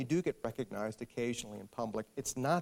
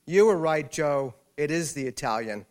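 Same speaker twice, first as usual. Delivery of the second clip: loud, higher imitated shout across the room; retold scream; 4 semitones higher, 10 dB louder than usual. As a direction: yell the news to a husband across a restaurant. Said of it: "screamed across the restaurant again".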